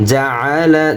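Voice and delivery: জাআলা with a throaty ain; throat ain. Shown as a demonstration. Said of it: "আইনের উচ্চারণ গলার ভিতরে ঢুকবে".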